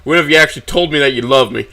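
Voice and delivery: accusing questions building to a loud high challenge; raising voice. A narrator's reading. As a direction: build from hurt to a shouted demand. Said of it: "I begin to raise my voice".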